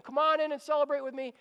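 high, quick host's welcome; urgent invitation. Acted. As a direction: eagerly wave the guests inside. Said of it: "he's inviting everyone to come in".

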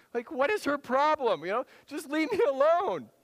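high, loud, fed-up plea; exasperated Peter. Retold or imitated. Preacher voicing Peter's exasperation at the servant girl. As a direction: whine at her to leave him alone.

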